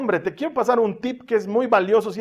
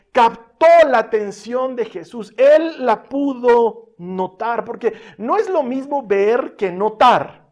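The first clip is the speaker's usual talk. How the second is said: louder, higher emphatic preaching; prédica enfática; 4 semitones higher, 5 dB louder than usual. Real, not acted. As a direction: press each phrase home with force. Preacher builds emphatic point. (predicación enfática, con fuerza)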